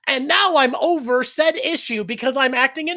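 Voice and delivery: lightly hammed-up anime character line; mock outright declaration. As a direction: declare it plainly like an over-explaining character. Mocks characters announcing their development.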